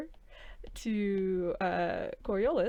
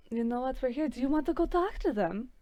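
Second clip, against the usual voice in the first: sarcastic; 6 semitones higher than usual. Acted. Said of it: "they say sarcastically".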